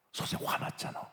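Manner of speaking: hushed, nearly whispered reproach; quiet confronting. Acted. Principal tells a teacher they were angry, hushed. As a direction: point it out very softly.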